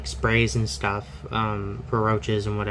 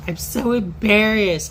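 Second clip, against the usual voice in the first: very high, slowed whiny voice; high, slow embarrassed friend; mock embarrassed friend; 11 semitones higher, 4 dB louder, slower than usual. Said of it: "she was like".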